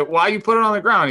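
high-pitched, loud demand; indignant challenge. Retold or imitated. Retold challenge to the teammate.

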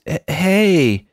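timid mock protest; a hint of a flustered dude; weak protest. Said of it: "the best he can muster is".

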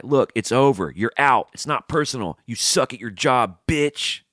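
punchy, mock-tough dismissal; imagined harsh firing. Imagined firing of the bug guy, mildly heated and blunt. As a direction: cut him loose in short, forceful phrases. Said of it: "I should have told the bug guy".

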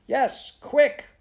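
high, loud, hurried order; urgent shout. Acted. Prue to Mary Joe amid the fire, urgent shout. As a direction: shout to hurry her up.

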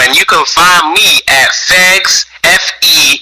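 slow, clear American accent. Real, not acted. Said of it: "I got my American accent on right now".

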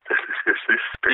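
soft, breathy hypnotist voice. Pretend. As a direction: lull them like a podcast hypnotist. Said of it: "I heard this hypnotist".

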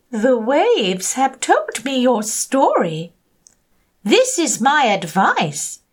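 deep octopus voice. Acted. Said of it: "said the octopus with a deep voice".

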